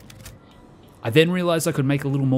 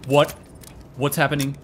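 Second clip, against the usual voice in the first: higher, louder frustrated outburst; annoyed at the bug; exasperated; 6 semitones higher, 5 dB louder than usual. Real, not acted.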